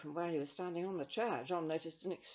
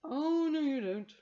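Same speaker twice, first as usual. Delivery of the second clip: firm Carbonell; 10 semitones higher, 10 dB louder, slower than usual. Acted.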